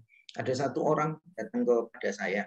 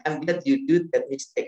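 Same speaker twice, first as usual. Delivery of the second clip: loud, slow, stressing do; warm praise again; 4 semitones higher, 7 dB louder than usual. Retold or imitated. Professor repeating his praise to the student, slow and emphatic. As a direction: repeat it slower and fuller.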